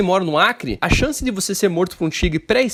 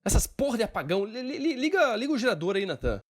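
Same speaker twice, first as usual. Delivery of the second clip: hushed in the dark; 3 semitones higher, 8 dB quieter than usual. Acted. Power outage, calls to helper.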